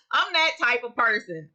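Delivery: said through a laugh. Real, not acted. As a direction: laugh it off as you admit it. Laughs while admitting worry.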